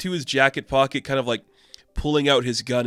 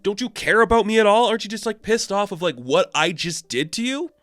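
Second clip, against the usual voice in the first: high, pleading mock outburst as Ice; mock lashing out; 8 semitones higher than usual. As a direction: demand he get mad, pitched way up. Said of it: "she's kind of lashing out".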